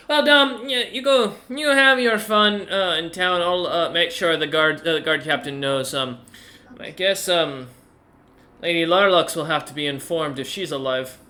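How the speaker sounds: the grandmother sending them off; Granny voice. Acted.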